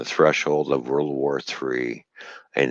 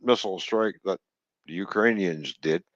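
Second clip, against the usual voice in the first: mocking official statement; 5 semitones higher than usual. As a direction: parrot the government line with contempt. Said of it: "there are governments around the world that say".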